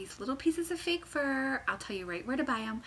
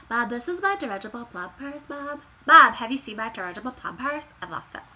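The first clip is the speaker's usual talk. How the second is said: silly calling out; 8 dB louder than usual. Acted. Silly bit calling to Bob.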